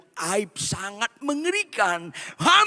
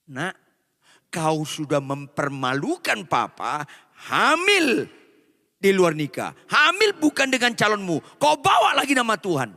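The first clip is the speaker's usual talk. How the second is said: shaming father. Acted. Father reproaching Maria for shaming him, building angrily. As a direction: shame her bitterly.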